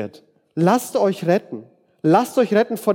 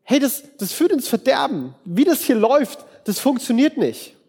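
raised, urgent warning voice; pleading alarm, higher; 5 semitones higher than usual. Retold or imitated. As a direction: call out the danger, pitched up.

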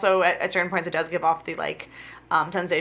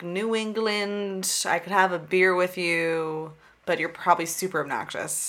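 lightly voiced, slow Boston type; a hint of Boston working-class talk, drawn out; New England local; 2 semitones lower, 5 dB quieter than usual. Podcaster characterizing the Boston accent, slow mock local. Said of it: "unironically love the Boston accent".

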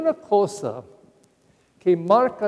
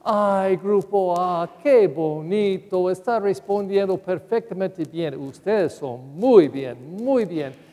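praising teacher; slower than usual. Retold or imitated. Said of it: "ella dijo a este grupo".

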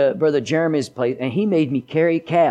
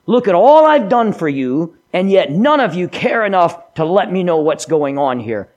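loud, aggrieved king; voicing Saul; 2 semitones higher, 4 dB louder than usual. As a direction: complain like an offended king. Saul's inner complaint voiced.

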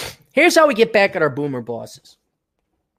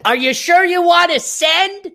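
mock computer prompt; 11 semitones higher, 4 dB louder than usual. Mocking the software's confirmation prompt.

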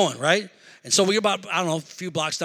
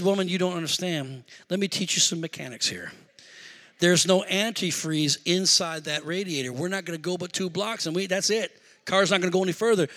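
patiently lecturing; 2 semitones lower, 4 dB quieter than usual. Retold or imitated. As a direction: explain it down to her. Husband lecturing wife in retold quarrel.

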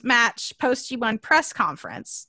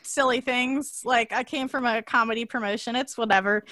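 exasperated shrug; 3 semitones higher, 4 dB louder than usual. Retold or imitated. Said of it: "So Kenny goes".

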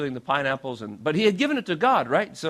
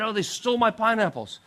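higher, mildly indignant retelling; mad outburst; 4 semitones higher than usual. Retold or imitated. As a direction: act out a mild angry lament. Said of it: "He was so mad".

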